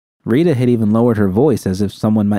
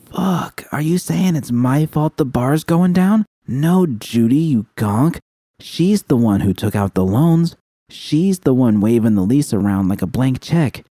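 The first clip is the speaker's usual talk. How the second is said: put-on higher, disbelieving young woman's voice; incredulous Judy; 6 semitones higher than usual. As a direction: push back in shock, a touch higher. Judy upset, Rita answering.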